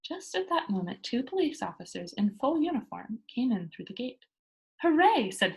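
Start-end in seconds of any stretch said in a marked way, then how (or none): 4.8-5.3 high, loud hooray; gleeful cheer. A narrator's reading. Pippi spotting the policemen, cheering high and loud. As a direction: cheer as if it's her lucky day.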